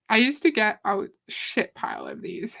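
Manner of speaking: breathy whispered confession, half to herself; whispered aside. Real, not acted. To the listeners, admitting how many scam texts she got: whispered. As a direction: drop to a whisper, like admitting a secret.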